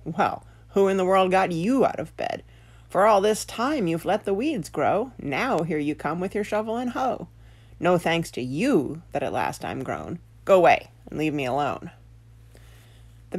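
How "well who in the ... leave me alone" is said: grumpy potato scolding the gardener; lightly voiced indignant potato; talking potato. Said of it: "one of them said".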